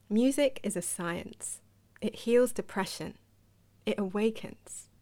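measured quotation reading, spaced by pauses; quote read aloud. Retold or imitated. Sharing a singer's thought on music's power, measured quote reading. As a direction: deliver each sentence as its own statement.

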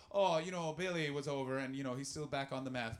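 chatty Newfoundland accent, lightly put on; a hint of Newfoundland kitchen chat. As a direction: gossip casually in a light Newfoundland lilt. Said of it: "that is a Newfoundland accent".

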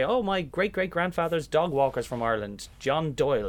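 a lightly voiced gushing fan; mock eager director. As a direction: gush about a distant Irish link. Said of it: "they'll say".

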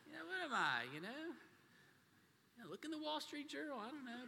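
high, fed-up dad voice; fed-up father answering questions; exasperated. Retold or imitated. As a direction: throw up your hands, exasperated. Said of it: "I was like".

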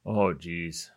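mild Minnesota drawn-out vowels; light Upper Midwest, Minnesota accent. Real, not acted. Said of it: "That sounded very Minnesota".

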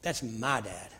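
low, hushed, leaning on "my"; stress on my. Shown as a demonstration. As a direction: say "my" with quiet ownership. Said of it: "Your kids get to say".

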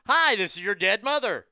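high, loud ghostly mother voice; spooky dead mother voice. Retold or imitated. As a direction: spook them as a dead mom. Acting out a crank call opener.

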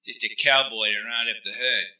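soft, level, unbothered threat; cool menacing voice. Acted. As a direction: quietly tell him he's coming. Rennie calm threat.

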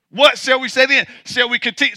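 plain preaching voice, firmly put; Paul's question. Retold or imitated. Preacher quoting Paul's question to the congregation, firm and plain. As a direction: ask it straight as Paul would. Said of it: "so Paul says".

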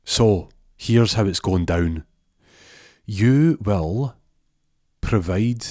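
Jimmy threatens Arjaf for the money; loud threat. Acted. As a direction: lay down the terms forcefully.

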